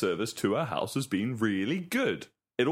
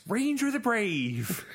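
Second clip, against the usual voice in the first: game announcer voice; 8 semitones higher, slower than usual. Retold or imitated. Quoting Fable game voices.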